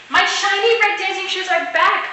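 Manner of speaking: put-on high, happy child cry; joyful shout. A narrator's reading. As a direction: shout for joy. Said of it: "I shouted".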